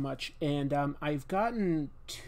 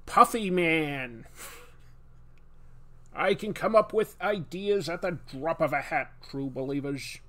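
a hint of Stan Lee hamming it up. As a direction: sell the silly idea like a comic-book huckster. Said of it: "Stanley impression always on point".

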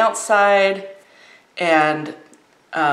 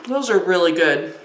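mouth full. Real, not acted. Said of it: "Please excuse me for talking with my mouth full".

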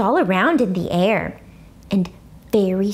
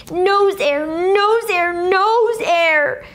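higher, insistent chant of nose air; hollering; 9 semitones higher, much slower than usual. A narrator's reading. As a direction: holler it in his ear. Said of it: "she hollered in his ear".

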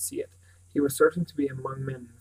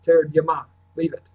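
calling out; 3 semitones higher, 11 dB louder than usual. A narrator's reading. Bran calling his dog off.

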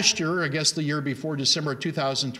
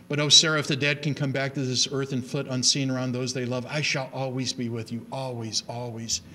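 tender reading that sinks to a hush on the final "always"; recited love letter, fading soft. Shown as a demonstration. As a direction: read it like a farewell letter to his wife, softer and softer. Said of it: "who writes to his, uh, wife".

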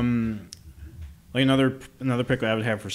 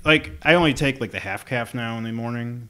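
too much caffeine. Real, not acted. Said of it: "talking a million miles a minute".

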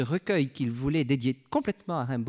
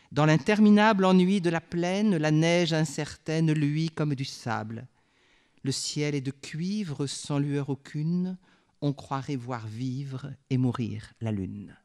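poem recital. Acted. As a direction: let the lines fade like the dying moon. Reads stanza of Ariette huit.

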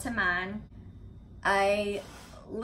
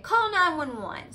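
retold urgent plea; 7 semitones higher, 4 dB louder than usual. Retold urgent call for help.

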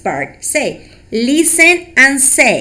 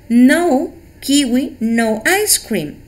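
slow emphatic correction; slower than usual. Shown as a demonstration. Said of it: "only the words with E R".

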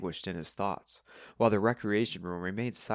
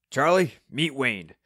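louder, higher, slow introduction; lightly voiced Steve; 5 semitones higher, 7 dB louder than usual. A narrator's reading. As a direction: introduce a friend loudly, unhurried. Steve introduces newcomer, character voice.

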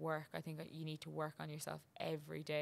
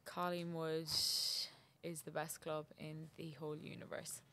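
attempted Irish accent. Shown as a demonstration. Podcast guest tries a sample sentence, attempted Irish accent. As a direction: have a careful go at an Irish accent. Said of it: "can you do an Irish accent".

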